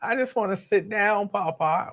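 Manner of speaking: a hint of a drowsy child; imitating a sleepy four-year-old. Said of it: "And she kept stopping".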